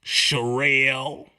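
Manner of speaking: ordinary delivery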